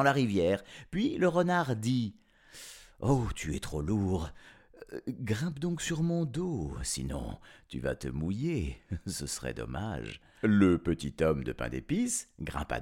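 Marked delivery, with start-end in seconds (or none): 3.0-10.2 low, soft crafty fox voice; softly scheming fox; sly fox. Acted.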